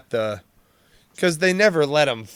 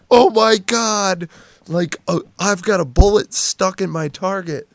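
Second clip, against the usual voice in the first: mock freak-out; 6 semitones higher, 4 dB louder than usual. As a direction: imitate someone freaking out, pitched up. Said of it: "they'd be freaking out".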